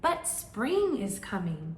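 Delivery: slow bright chirpy bird. Acted. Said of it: "Bird chirped".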